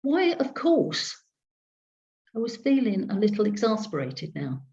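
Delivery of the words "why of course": slow, high, baffled "Why"; drawn-out bewildered query; puzzled question. A narrator's reading. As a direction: ask it, thrown and perplexed.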